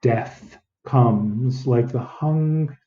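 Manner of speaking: slow, careful read; slow deliberate reading. Shown as a demonstration. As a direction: read it slowly, word by word. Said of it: "I will underline the words that I want to work on".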